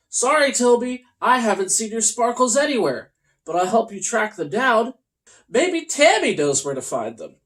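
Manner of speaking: a gentle shrugging balloon. Acted. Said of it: "Robert shrugged his shoulders and said".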